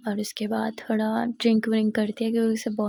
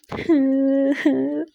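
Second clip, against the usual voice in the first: sob; 3 semitones higher, 4 dB louder than usual. Acted. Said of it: "जिया ज़ोरों से रोने लगती है".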